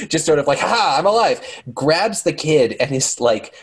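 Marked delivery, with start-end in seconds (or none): 0.6-1.4 high cackling witch voice; mock witch cackle, raised pitch. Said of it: "in a witch voice".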